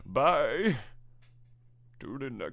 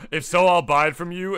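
laughing; 6 semitones higher, 10 dB louder than usual. Real, not acted. Louder laughing repeat.

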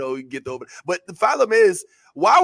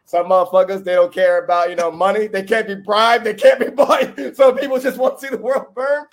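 ranting louder and louder about people who can't be bought; building rant; 3 semitones higher, 7 dB louder than usual. Real, not acted. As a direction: voice swells louder through the rant, a laugh near the end. Heated rant about shameless people.

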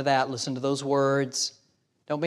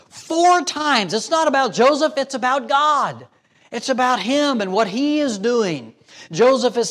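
high, ringing emphasis on the point; preaching at full force; 8 semitones higher than usual. Acted. Preacher stressing God's role to the congregation, full force. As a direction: drive home that it's about God.

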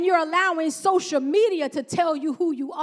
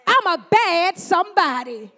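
bold declaration; 7 dB louder than usual. Shown as a demonstration. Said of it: "I'm telling you, God said".

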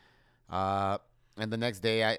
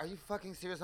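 indignant disbelief; 9 semitones higher, 6 dB quieter, faster than usual. Retold or imitated. Incredulous retort to rude clerk.

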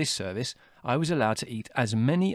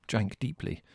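ordinary delivery, nothing marked

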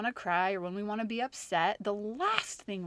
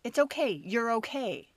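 put-on hushing a child. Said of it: "tell them".

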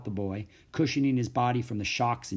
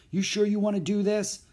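higher, puzzled question; mildly puzzled, higher-voiced query; slow puzzled question; 8 semitones higher than usual. A narrator's reading. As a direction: ask it doubtfully, pitched up. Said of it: "Mac asked slowly".

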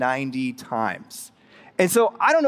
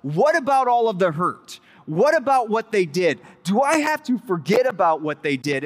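objecting listener; 3 semitones higher than usual. Retold or imitated. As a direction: voice the congregation's protest, lightly acted. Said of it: "'Cause we're like".

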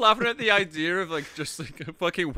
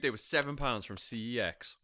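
whispering; 5 semitones lower, 7 dB quieter than usual. Real, not acted. Unvoiced aside.

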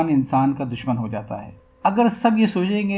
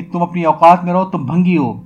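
retold scolding, louder; imitating angry lady; 6 dB louder than usual. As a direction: mimic the lady snapping him into his place. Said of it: "بیگم صاحب کو غصہ آ گیا، کہنے لگی". (غصے میں بیگم صاحب کی نقل، اونچی آواز)

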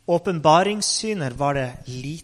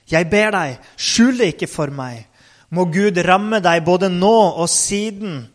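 inntrengende krav; 5 dB louder than usual. Acted. Eli krever svar av Samuel.

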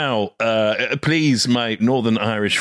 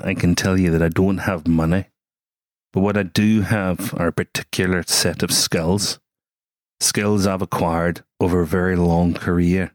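lightly lowered Liam Neeson threat; 4 semitones lower than usual. Pretend. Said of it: "get into full Liam mode".

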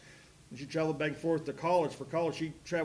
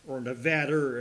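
Nevada with a Boston a, ah; Boston accent; 2 semitones lower, 5 dB louder than usual. Retold or imitated. Imitating his dad's Boston accent on Nevada. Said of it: "as my dad called it in his Boston accent".

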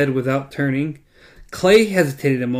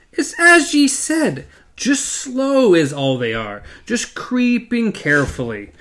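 higher, slow pleased voice; pleased sheriff; 8 semitones higher than usual. A narrator's reading. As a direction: savor the good news. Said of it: "then crackled happily".

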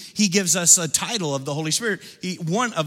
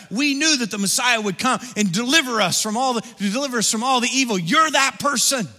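fervent disciples; 3 semitones higher, 4 dB louder than usual. Acted. Disciples answer Jesus, rising fervour.

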